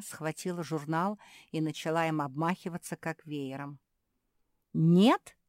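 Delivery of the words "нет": louder questioning echo; puzzled echo. Acted. Sister echoing the refusal, surprised. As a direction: repeat it in disbelief. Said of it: "повторила Марсия".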